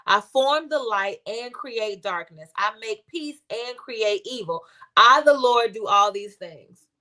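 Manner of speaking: slow, measured Bible reading; scripture reading. Real, not acted. Reading Lo's Isaiah verse to listeners, slow scripture reading. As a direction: read the verse slowly and deliberately.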